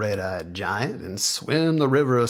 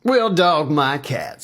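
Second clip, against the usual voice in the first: higher, slow, loud amazement; guru Baba Fats; 5 semitones higher, 7 dB louder than usual. Acted. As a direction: drawl it out in wonder.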